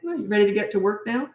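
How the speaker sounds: quick, breezy, unfazed; unbothered. Shown as a demonstration. Coach shows how he answers an arguing kid, breezy. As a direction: brush off the arguing lightly and move on. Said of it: "Like, that meant nothing to me".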